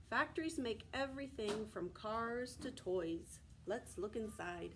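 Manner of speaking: steady read-aloud from the book; reading to children. Acted. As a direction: read the page aloud to the class. Reads picture book to class.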